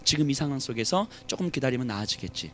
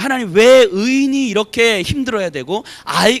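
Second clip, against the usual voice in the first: arguing with God; 5 semitones higher, 8 dB louder than usual. Acted. Preacher voicing the psalmist arguing with God, raised protest. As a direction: demand answers from God, voice raised. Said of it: "하나님 앞에 막 따지는 거예요".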